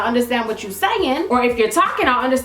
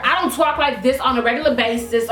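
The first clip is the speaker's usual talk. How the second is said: lightly exaggerated New York accent; playful touch of put-on New York talk; extra New York accent. Shown as a demonstration. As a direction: lay on a little New York attitude in the accent. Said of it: "When I do all this, I'm just being extra".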